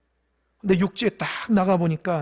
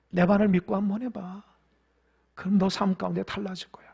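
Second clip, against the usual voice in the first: gentle voice of Jesus; 3 semitones lower than usual. Acted. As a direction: coax a failed disciple kindly. (부드럽게 낮춰 타이르는 예수님)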